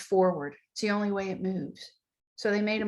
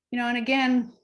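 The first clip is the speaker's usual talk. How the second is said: whisper; 3 semitones higher, faster than usual. Real, not acted. Whispered aside.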